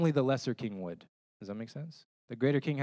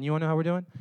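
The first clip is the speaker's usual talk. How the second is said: put-on eager boyfriend; 5 semitones higher, 6 dB louder, much faster than usual. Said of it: "it'd be like the guy saying".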